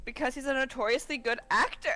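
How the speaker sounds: sarcastic read breaking into laughter; can't keep a straight face; laughing through the line. Acted. Retrying the coached line, laughing. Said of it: "You have to sound slightly sincere".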